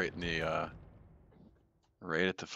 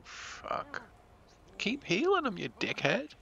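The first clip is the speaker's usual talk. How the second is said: exasperated yell; slower than usual. Real, not acted. Yelling at teammate in game.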